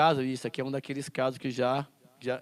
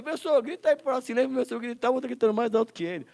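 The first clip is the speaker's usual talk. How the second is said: students; 9 semitones higher, 4 dB louder, faster than usual. Retold or imitated. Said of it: "os moleques falam assim".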